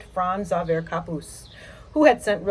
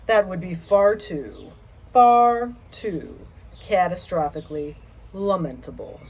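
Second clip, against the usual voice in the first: measured, dramatic poetry recital; poem reading. Acted. Poet reading her gloomy poem to listeners, recital style. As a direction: linger on each image like a graveyard poet.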